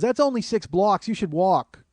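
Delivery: high, insistent New Yorker; mock a brash know-it-all stranger; pushy woman. Woman telling comedian to walk, pushy.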